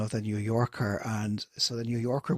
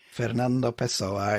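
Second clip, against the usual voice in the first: slow, hammed-up Portuguese pronunciation of a poet's name; bad Portuguese accent; slower than usual. Shown as a demonstration. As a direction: have a go at a Portuguese accent, drawing it out. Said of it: "my best bad Portuguese accent".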